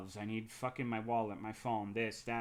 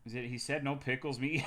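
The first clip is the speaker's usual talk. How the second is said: normal talking voice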